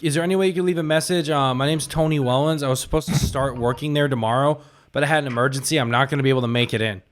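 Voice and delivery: prank caller voice. Pretend. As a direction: fake earnest caller. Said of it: "We've been doing prank calls".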